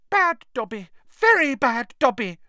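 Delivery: high elf voice scolding himself; muttering elf. Acted. Dobby scolding himself after hitting his head, high and muttered.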